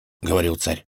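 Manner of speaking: plain reading voice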